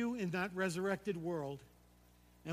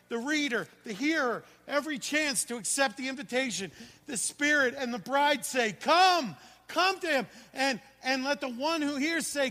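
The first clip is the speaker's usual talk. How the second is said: full-force shouted preaching, louder and higher; preaching yell; 4 semitones higher, 7 dB louder than usual. Real, not acted. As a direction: yell it out because it matters so much. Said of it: "I'm yelling because it's so important".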